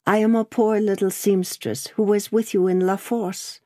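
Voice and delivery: a hint of a meek young woman; young seamstress. Seamstress speaks to Carton.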